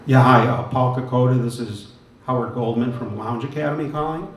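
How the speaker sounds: loud phone greeting; projecting into phone. Real, not acted. Host rings the lounge piano critic on air, projecting. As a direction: announce yourself down the line.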